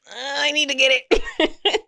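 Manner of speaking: laughing mock plea. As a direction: beg for it through a laugh. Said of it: "I was like".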